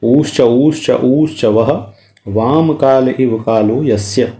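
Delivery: ऊश्च said slowly and stretched, vowel held; ऊश्च as a syllable-length demo. Shown as a demonstration. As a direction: demonstrate ऊश्च with a drawn-out ऊ. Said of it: "ऊकालः शब्द का अर्थ लिख रहे हैं". (ऊश्च धीरे, खींचकर बोलना)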